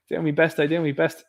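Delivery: laughing through doing my best; thanked for accent, laughing; laughing modestly. Real, not acted. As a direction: chuckle off the compliment. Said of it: "Ninja does a great Boker accent".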